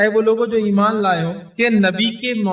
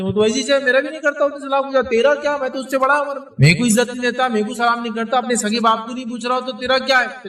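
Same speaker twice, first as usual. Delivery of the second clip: raised, high-pitched indignant retort; the offended uncle snapping back; 5 semitones higher than usual. Retold or imitated. Offended uncle scolding the would-be mediator, high and indignant.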